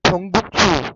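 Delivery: खोंगुकसू with the consonants pressed firmly. Shown as a demonstration. Teacher showing a pressed Korean sound, firm. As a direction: lean into each consonant of खोंगुकसू. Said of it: "दबा के बोलना है".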